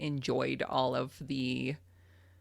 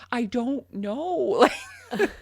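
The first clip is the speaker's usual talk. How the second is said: laughing helplessly; 9 semitones higher, 5 dB louder, much slower than usual. Retold or imitated. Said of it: "And I'm like".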